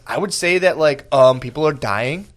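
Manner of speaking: mocking imitation of a mayor talking like a teen girl; lightly put-on young-woman attitude; nineteen-year-old chick. Mayor answering people losing their jobs, in mock teen-girl attitude. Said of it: "stop talking like a nineteen-year-old chick".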